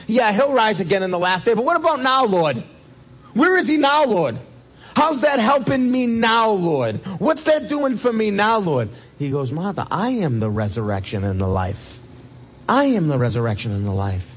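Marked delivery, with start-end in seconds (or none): 1.5-8.9 Martha pleading. Acted. Martha's voiced complaint. 9.5-14.3 Jesus, calm. Acted. Jesus answering Martha.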